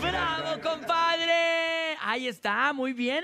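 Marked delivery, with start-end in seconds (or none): 0.0-1.9 excited cheer. Real, not acted. Host cheers caller's joke.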